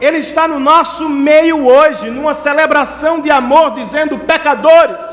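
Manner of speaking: high, impassioned pulpit delivery; preaching at full force. Acted. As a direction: thunder God's promise to the congregation, stretching key words.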